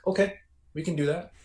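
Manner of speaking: lightly voiced wife.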